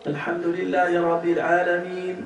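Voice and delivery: Alhamdulillahi Rabbil Alamin with the letters weakened, the ʿayn dropped; deliberately wrong recitation. Shown as a demonstration. Teacher shows students a faulty Fatiha recitation. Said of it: "c'est faux".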